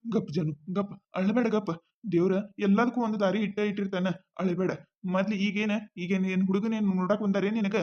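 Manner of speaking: calm her down gently, low and soft; soothing. Acted. He comforts crying girlfriend. (ಅಳುವ ಜಾನುವನ್ನು ಸಮಾಧಾನಿಸುವ ರವಿ, ಮೃದುವಾದ ಧ್ವನಿ)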